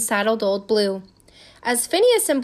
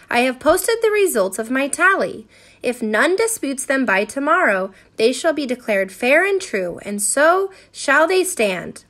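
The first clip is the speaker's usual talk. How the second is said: measured public proclamation; formal announcement; 3 dB louder than usual. A narrator's reading. Phineas posting his tally for the town, formally announcing. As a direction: declare it officially to the crowd. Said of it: "he announced".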